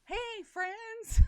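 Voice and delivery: high, loud greeting in a put-on accent; best impression. Host giving guest a clue to next week's guest, high-pitched impression. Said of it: "I'm gonna do an impression".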